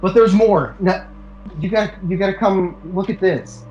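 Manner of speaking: mock urgent Annie. Annie begging husband to see the attic, mock urgent. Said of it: "Annie's like".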